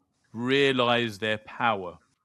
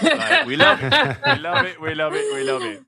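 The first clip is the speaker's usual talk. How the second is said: excited praise; 12 dB louder than usual. Real, not acted. Laughing praise of a guest.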